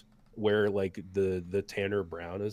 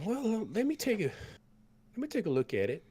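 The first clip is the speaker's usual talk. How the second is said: folksy cook; 13 semitones higher, faster than usual. Acted. The cook hands bowls to the battered party, high and folksy. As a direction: play the big cook fussing over them. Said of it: "he said".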